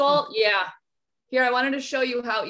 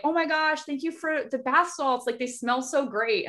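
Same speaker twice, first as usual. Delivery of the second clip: gushing thanks; 4 semitones higher than usual. Retold or imitated. Teacher's grateful text acted out.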